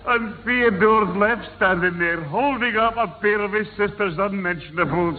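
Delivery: laughing. Real, not acted. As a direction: chuckle your way through it. Grandad laughing at photo.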